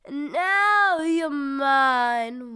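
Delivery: slow, sinister witch casting a spell; lightly voiced menacing witch. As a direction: drawl the curse like a movie witch. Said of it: "for the movie".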